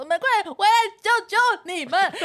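on the phone begging friends to hurry home in panic; panicked plea. Retold or imitated. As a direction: beg them to come home, frightened. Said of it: "一直打电话跟你们说".

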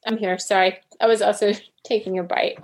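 talking with a mouthful of chicken; chewing while speaking; mouth full. Real, not acted. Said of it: "My mouth is full of chicken".

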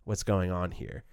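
understated grief for the brother; lamenting, subtle. Shown as a demonstration. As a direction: mourn it quietly, not pushing. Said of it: "just gonna be lamenting".

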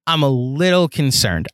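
"little" stands out as the key word; stress on "little". Real, not acted. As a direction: lean on "little", stretching it out. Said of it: "I want to emphasize the word little".

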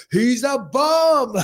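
high, slow mock Bobby voice; mimicking Bobby. Imitating Bobby dismissing a fighter, high and slow.

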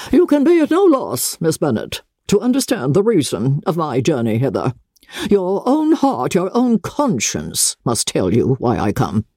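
a hint of a proud aristocrat; haughty Lady Catherine. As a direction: talk down to her from a height. Lady Catherine confronts Elizabeth.

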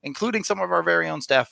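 upbeat sponsor read. Acted. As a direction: read it like a podcast ad. Reads sponsor ad.

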